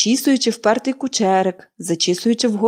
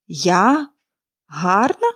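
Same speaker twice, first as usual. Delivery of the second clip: bitter irony; 2 semitones lower, much slower than usual. A narrator's reading. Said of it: "з гіркою іронією перепитала жінка".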